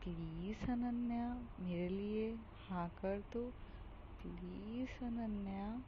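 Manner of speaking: slow, soft, coaxing plea; cute pleading. Acted. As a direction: draw out the name sweetly to win her over. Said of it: "इस तरीके से कहना काफ़ी ज़्यादा cute था". (धीमे, मीठे अंदाज़ में मनाना)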